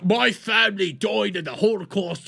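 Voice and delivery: high, whiny mock outrage at a Holocaust remark; mocking Piers. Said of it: "this dude's on here just go like".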